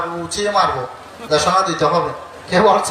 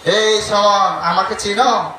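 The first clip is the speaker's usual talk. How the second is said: mock threatening demon, a touch higher; angrier demon; 4 semitones higher, slower than usual. The yaksha threatening Buddha, hamming up the anger. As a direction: challenge him with a light mock menace. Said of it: "আরো বেশি ক্ষেপে বলছেন".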